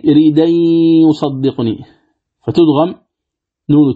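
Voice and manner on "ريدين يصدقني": "ريدين يصدقني" with the hamza dropped; Warsh naql reading. Shown as a demonstration. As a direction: say "ريدين يصدقني" with the nasal merge into the ya. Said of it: "فتقرأ بعد النقل".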